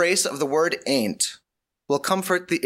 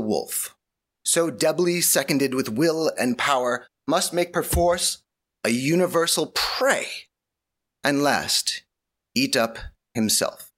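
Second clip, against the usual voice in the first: hammy stage actor; slower than usual. Acted. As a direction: declaim it like a grand stage actor. Dramatic Shakespeare recitation.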